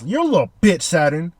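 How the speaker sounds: hammed-up angry retort; imitating a furious Vegapunk; mock mad. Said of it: "Bro's mad".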